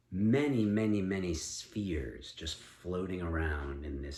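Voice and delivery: story narration. A narrator's reading. Parent takes turn narrating.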